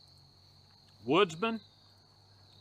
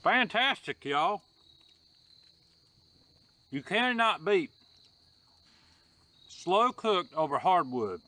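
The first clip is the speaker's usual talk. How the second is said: excited; 4 semitones higher, slower than usual. Real, not acted. Tasting the ribs, delighted.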